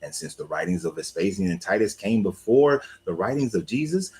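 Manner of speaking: formal, carefully enunciated presenter voice with rolling intonation; voiceover recap. Acted.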